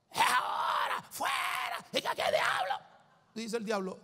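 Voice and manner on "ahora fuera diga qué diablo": imitating a deliverance shout. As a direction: yell it like a frenzied exorcist, pitch way up. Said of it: "la gente grita".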